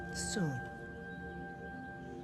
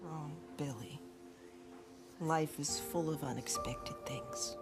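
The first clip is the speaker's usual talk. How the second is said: tender mother; 3 dB quieter than usual. Acted. Dead mother comforts her son.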